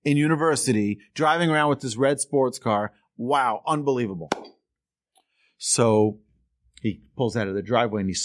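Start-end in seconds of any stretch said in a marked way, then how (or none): 0.0-4.3 excited. Retold or imitated. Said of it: "So excited".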